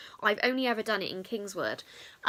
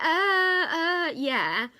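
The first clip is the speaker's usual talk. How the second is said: tearful yeah; 6 semitones higher, 6 dB louder, much slower than usual. Retold or imitated. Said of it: "in tears by this point".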